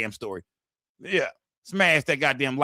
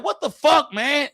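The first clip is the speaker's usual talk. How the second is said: much higher, louder shocked cry; outraged disbelief; 11 semitones higher, 4 dB louder, slower than usual. Retold or imitated. Reacting to a show character's twist, high and loud shocked cry. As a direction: squeal it in disbelief. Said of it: "I'm like".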